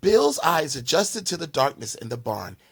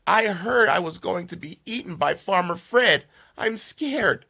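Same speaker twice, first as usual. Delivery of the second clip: scared piglet; 4 semitones higher than usual. Acted. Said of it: "With tears in her eyes".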